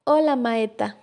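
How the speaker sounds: «maeta» sin la ese ni la erre; habla infantil. Acted. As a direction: imita a un niño pequeño que dice «maeta» por maestra. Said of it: "sonrió y dijo". (habla infantil, comiéndose sonidos de «maeta»)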